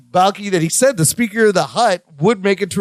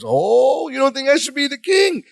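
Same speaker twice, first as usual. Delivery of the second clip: high, hammed-up challenge to a doubter; mock-indignant, high-pitched question; Larry's delivery; 8 semitones higher than usual. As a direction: imitate an affronted would-be king, pitched up. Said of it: "I love Larry's delivery here".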